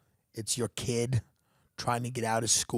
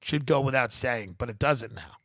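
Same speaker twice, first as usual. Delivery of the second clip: usual speaking voice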